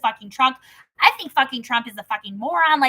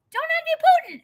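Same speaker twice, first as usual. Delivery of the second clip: mocking aside; 13 semitones higher than usual. Real, not acted.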